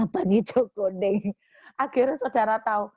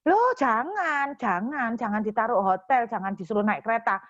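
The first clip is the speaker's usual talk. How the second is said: surprised protest. Retold or imitated. Husband protests, drawn out.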